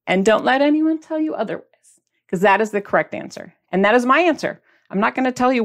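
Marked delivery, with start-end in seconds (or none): none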